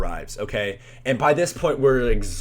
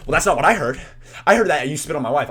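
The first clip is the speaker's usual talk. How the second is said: louder, raised-pitch retort; mock confrontational; 5 semitones higher, 6 dB louder, faster than usual. Husband disputing the teen's account, mock confrontational. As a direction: insist like an offended husband. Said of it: "kinda confronting us".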